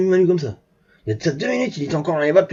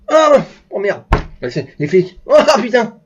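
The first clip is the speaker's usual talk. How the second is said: imitated startled reaction; 3 semitones higher, 4 dB louder than usual. Officers spot who is driving, mock startled swearing. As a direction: act out a shocked double take. Police officers recognise the president.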